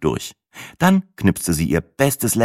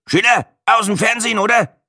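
put-on higher, louder Franconian old man; Franconian grunt; 4 dB louder than usual. Old camera pensioner recognising the TV face, in Franconian. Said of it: "grunzte ein offenbar fränkisches".

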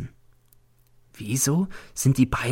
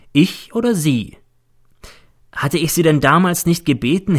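lightly voiced reproachful boy, higher; a hint of a ghostly boy accusing his teacher; the dead boy N; 4 semitones higher, 3 dB louder than usual. Dead pupil reproaches his teacher, lightly voiced boy.

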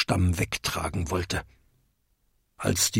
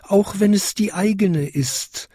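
high, prim small bell voice; high-pitched, defensive little chime; tinkling little bell; 9 semitones higher than usual. A narrator's reading. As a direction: lecture politely in a tiny high voice. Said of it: "bimmelte die kleinste Glocke".

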